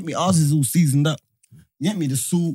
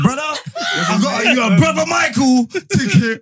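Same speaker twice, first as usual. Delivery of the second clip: hyped, laughing fake excitement; over-the-top excited friend; 5 semitones higher than usual. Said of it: "He's like".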